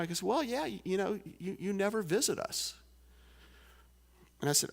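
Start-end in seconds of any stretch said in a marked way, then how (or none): 0.2-2.7 voicing the farmer.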